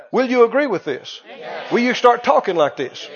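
ordinary talk

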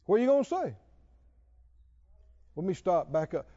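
normal talking voice

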